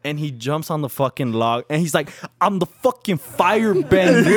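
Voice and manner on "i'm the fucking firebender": hammed-up drunk friend's boast; mock boast. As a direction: proclaim it high, mimicking him.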